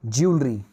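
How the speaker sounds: "ज्वेलरी" said as JOOL-ree; "ज्वेलरी" as a model word, falling at the end; correct pronunciation. Shown as a demonstration. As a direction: say "ज्वेलरी" in two syllables, no "wel". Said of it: "it's jewelry".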